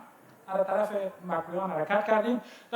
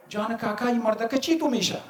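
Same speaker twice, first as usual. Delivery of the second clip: put-on sweet Kandahari accent; 3 semitones higher than usual. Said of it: "با همون لهجهٔ شیرین قنداری".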